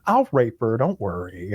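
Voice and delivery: low hushed put-on hero voice; he's like. Mocking the hero's reassurance, low soft voice. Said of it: "he's like".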